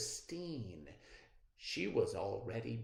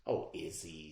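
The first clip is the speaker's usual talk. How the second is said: smiling; 6 semitones lower than usual. Acted. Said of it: "smiled Grandpa".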